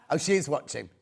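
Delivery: chuckling through the words; laughing. Real, not acted. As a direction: laugh while picturing her watching. Laughing about Haley watching.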